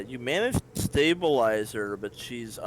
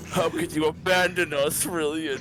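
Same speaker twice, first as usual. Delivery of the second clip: higher, louder accusing statue voice; speaking stone head; 6 semitones higher, 4 dB louder than usual. Acted. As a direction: accuse him as the master's head. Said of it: "The head speaks".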